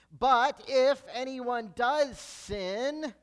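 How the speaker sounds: "but" hit loud and high, then slow; big emphasis on but. Real, not acted. Preacher stressing a turning point in scripture, loud emphasis on "but". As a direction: punch "but" hard and stretch out the line. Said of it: "there's some big buts in the Bible".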